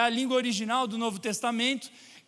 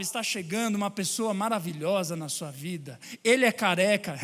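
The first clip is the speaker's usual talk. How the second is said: lower-pitched mock prophecy; lightly voiced fortune-teller; 5 semitones lower than usual. Slave woman telling a client's fortune, lightly voiced fortune-teller. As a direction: lightly play a fortune-teller making a prediction. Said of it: "e ela falava".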